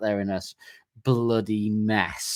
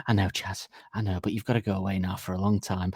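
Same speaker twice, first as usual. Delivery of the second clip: calming bandmate; 2 semitones lower, 3 dB quieter than usual. Acted. Bandmate sending the prisoner away, calm and soothing. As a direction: gently talk him down.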